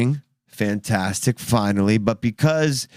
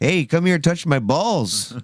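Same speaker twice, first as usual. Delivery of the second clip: mock creepy mechanic; 5 semitones higher, slower than usual. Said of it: "How do you think I got the next car".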